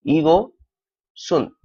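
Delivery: ईगो, pause, then सुन with an s; linked reading. Shown as a demonstration. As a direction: split ईगो सुन into two parts. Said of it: "पढ़ेंगे हम इसको". (ईगो, रुककर, फिर सुन)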